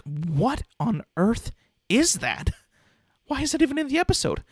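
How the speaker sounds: rising into a high, baffled squeak; bewildered kid reaction. Retold or imitated. Recalling his childhood shock at the episode, high baffled squeak. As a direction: recall being a confused kid at the screen. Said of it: "But I was like".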